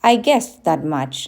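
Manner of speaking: slurred through chocolate; mouth full. Acted. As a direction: talk around a mouthful of chocolate. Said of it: "slurred Rush".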